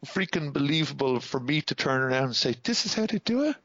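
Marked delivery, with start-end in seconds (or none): 2.6-3.6 amazed question. Retold or imitated.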